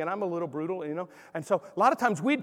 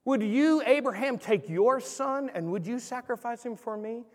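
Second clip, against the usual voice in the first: entreating question; 3 semitones higher than usual. Shown as a demonstration. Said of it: "It begins with a question".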